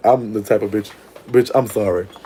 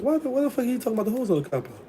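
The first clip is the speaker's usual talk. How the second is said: mock outrage; 12 semitones higher, 8 dB quieter, faster than usual. Retold outraged question.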